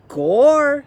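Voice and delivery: high, loud startled exclamation; Meg's exclamation. Acted. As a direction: blurt it out.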